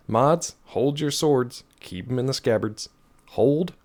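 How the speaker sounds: mock battle command.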